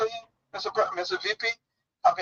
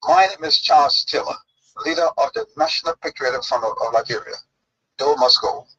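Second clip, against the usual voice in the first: louder, commanding rebel broadcast; powerful radio voice; 3 semitones lower, 6 dB louder than usual. Retold or imitated. Retelling the radio announcement he heard in 1990, louder. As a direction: proclaim it like a rebel leader on the radio. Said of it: "we heard a powerful voice on the radio".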